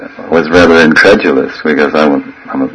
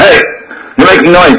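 mock scolding call; 10 semitones higher than usual. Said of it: "he goes".

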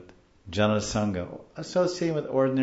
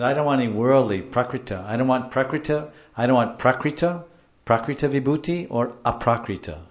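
emphatic refusal; 4 semitones higher, 6 dB louder than usual. Retold or imitated. Voices the author refusing opulence.

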